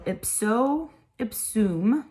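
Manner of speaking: "ipso, ipsum" slow and careful; pronunciation demo. Shown as a demonstration. Teacher pronouncing Latin for parents, "ipso, ipsum" said slowly. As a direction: stretch out "ipso, ipsum" for learners. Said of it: "I will pronounce them for you".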